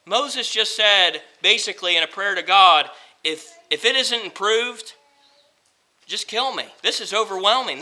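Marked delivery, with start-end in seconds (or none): 3.2-6.6 much softer, worn-out plea; barely above a breath, giving up; despairing hush. Acted. Preacher voicing Moses asking God for death, hushed despair. 6.8-7.8 much softer, defeated; quiet despair. Acted. Preacher voicing Moses' defeated prayer, quiet despair.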